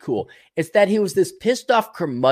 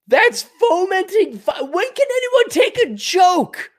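much higher, exasperated, pleading; incredulous rant; 13 semitones higher than usual. Real, not acted. Streamer mocks the governor for calling tweets violence, exasperated. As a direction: come on, can't anyone take a joke.

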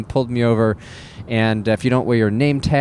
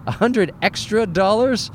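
higher, rising mock-incredulous question; incredulous repeat; 8 semitones higher than usual. Comic retelling of the baggage fee, high rising disbelief. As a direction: throw it up high like you're scandalized. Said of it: "I'm like".

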